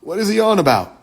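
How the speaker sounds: lightly voiced proper talker; mock proper talk. Imitating a first-time listener's question, mildly mock proper. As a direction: mimic somebody's proper way of talking, lightly. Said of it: "Somebody talk like that".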